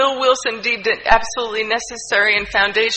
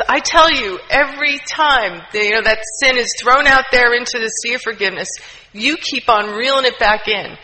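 angry priest. Retold or imitated. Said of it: "tears of anger and frustration".

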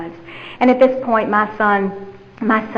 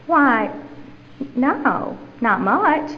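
sweet, higher Southern lilt; put-on Southern accent; 4 semitones higher, much slower than usual. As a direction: lay on a coy little Southern accent. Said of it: "put that little southern accent on him".

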